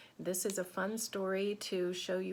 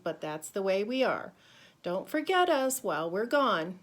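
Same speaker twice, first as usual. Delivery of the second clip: proud postcard voice; 2 semitones higher, 6 dB louder than usual. Acted. Reading apostrophes' postcard aloud.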